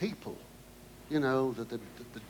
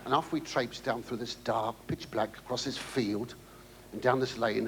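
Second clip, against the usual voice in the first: ordinary delivery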